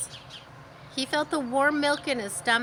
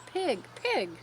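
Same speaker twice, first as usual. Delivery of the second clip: kind voice; 7 semitones higher than usual. A narrator's reading. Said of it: "in a kind voice".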